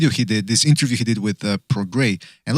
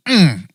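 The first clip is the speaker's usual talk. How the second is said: mock approving hum; 3 semitones higher, 3 dB louder than usual. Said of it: "you can hear him with the camera go".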